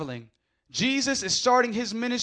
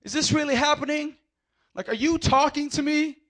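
incredulous woman; 4 semitones higher than usual. Retold or imitated. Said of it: "She's stopping him saying".

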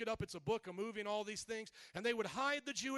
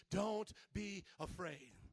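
slow, soft, lower "Don't be afraid"; reassuring; 4 semitones lower, 3 dB quieter, slower than usual. Acted. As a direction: comfort them gently with "Don't be afraid". Gentle repeat of God's words.

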